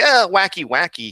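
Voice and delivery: high, loud goofy squeal of wacky; a cartoonish burst; wacky silly voice. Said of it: "instead of being this".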